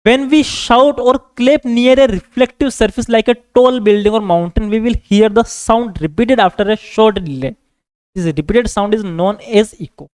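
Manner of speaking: very slow, word by word for copying; measured note-dictation voice. Acted. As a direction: dictate it so students can write it down. Teacher dictates notes in English.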